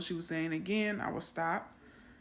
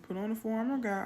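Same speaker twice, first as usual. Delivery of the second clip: put-on fast, higher childlike gabble; child reciting; 4 semitones higher, much faster than usual. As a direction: rush it like a little girl. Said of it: "She goes".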